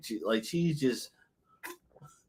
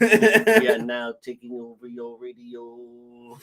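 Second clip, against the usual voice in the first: put-on old speech synthesizer; 2 semitones lower, 6 dB louder, much slower than usual. Alien voice over studio.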